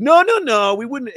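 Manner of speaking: high, quick rep backpedalling; hurried clerk denial. Retold or imitated. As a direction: play the rep rushing to reassure. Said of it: "She's like".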